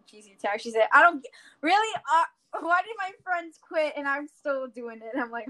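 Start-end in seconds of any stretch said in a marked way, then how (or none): 0.9-5.2 higher-pitched, hurried imitation of a dismayed friend; mock dismay. Retelling the friend's reaction to quitting, mock dismay. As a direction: stumble into a retold protest.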